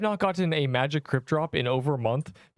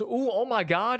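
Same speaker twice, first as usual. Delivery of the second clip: amazed gasp; 8 semitones higher, slower than usual. Pretend. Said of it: "he goes".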